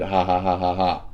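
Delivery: spoken ha-ha-ha imitating their laughter; mock laughter. Streamer mocking people who deny it, fake laughing. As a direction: mimic them laughing it off. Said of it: "deny it and laugh about the fact".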